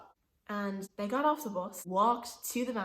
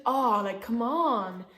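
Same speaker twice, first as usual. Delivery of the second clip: imitating his louder, drawn-out nagging; raised voice; 2 semitones higher, 6 dB louder, slower than usual. Man pressuring woman on bus, slightly raised voice. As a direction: push it louder, like pestering someone to give in. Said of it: "he kind of raised his voice a bit".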